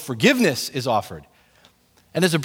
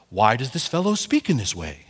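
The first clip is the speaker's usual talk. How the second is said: proper reading; 7 semitones lower, 3 dB quieter than usual. Retold or imitated. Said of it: "it sounds just so proper".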